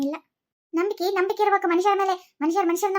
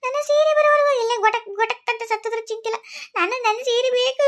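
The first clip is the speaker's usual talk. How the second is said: wailing demand; 3 semitones higher than usual. Acted. Daughter-in-law wailing demand.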